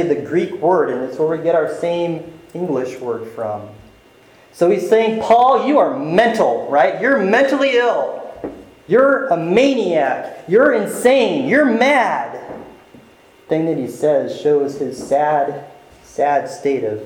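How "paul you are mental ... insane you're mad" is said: higher, slowing jeer of you're insane; lightly voiced scornful Festus; mocking accusation. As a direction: taunt him as a maniac. Festus calls Paul insane.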